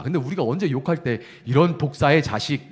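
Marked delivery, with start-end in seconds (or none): 1.5-2.7 louder, spat out like a real curse; cursing insult. Shown as a demonstration. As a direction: swear it at someone. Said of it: "이렇게 욕할 때".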